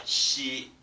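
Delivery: shi with air out the side; side sh sound. Shown as a demonstration. Teacher showing where the air comes out. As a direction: let shi escape from the side. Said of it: "It comes out from the side".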